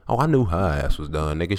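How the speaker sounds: ordinary delivery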